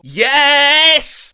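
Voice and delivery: loud, fed-up yes; exasperated yes. Retold or imitated. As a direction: bark out the answer in frustration. User losing patience.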